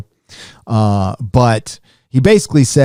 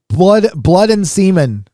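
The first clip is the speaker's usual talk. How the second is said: mock disgust; 7 semitones higher, slower than usual. Sneering at a comic's palette.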